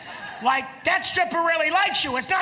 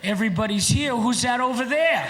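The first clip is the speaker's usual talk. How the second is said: curious, concerned whale. Retold or imitated. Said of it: "curious and a little concerned".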